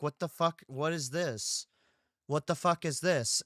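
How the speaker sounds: loud, incredulous what the fuck; girlfriend's angry outburst. Retold or imitated. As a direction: girlfriend yelling at him, mock outrage. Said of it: "and she's like".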